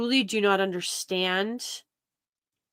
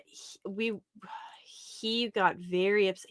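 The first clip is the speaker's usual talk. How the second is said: whispering; 6 dB quieter than usual. Real, not acted. Hushed aside about a friend.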